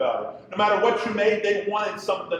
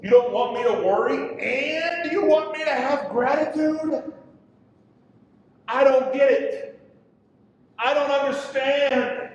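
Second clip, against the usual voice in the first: bewildered protest; 6 semitones higher, 4 dB louder than usual. Acted. Preacher voicing confusion at God.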